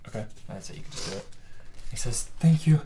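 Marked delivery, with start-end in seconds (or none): 2.4-2.8 whispered, grateful; whispered thanks. Acted. Freed boy thanks the rogue, whispered. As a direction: breathe the thanks out.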